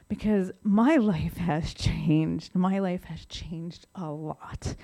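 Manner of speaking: slow, with a real laugh breaking through; laughing, moved. Real, not acted. Speaker to meeting, laughing slowly about her changed life. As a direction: let a laugh slip as you slow down.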